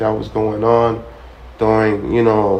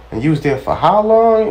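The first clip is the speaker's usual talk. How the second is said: put-on higher, incredulous young lady; mock disbelief; 8 semitones higher, 3 dB louder than usual. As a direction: ask it like you can't believe he went. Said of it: "she was like".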